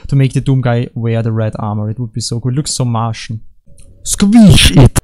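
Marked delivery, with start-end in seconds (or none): 4.0-5.0 high, loud mock battle yell; hammed-up, high-pitched shout; excited shout. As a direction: yell it out with playful relish. Gleefully shouting at the game.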